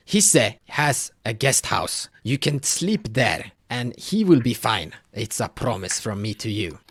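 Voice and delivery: a hint of a worried elder pleading for help; village elder Haka. Elder offers guest house.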